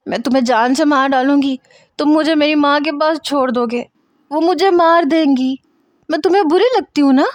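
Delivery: high, frantic screaming threats; Zoha's shrill panicked threats in the car. Acted. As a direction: claw at him in panic, shrieking. Zoha attacking him in car.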